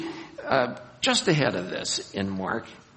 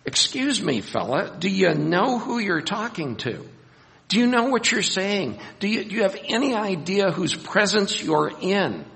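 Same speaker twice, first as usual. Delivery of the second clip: higher, pleading challenge to a clueless man; exasperated rebuke; 6 semitones higher, 3 dB louder than usual. Retold or imitated. Preacher confronting the rich young man, exasperated and raised. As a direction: confront him like he should know better. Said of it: "I come back and I go".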